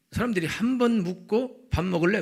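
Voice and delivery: 높고 크게 강조하며. Real, not acted. Voicing quick one-time asker. (높고 큰 목소리)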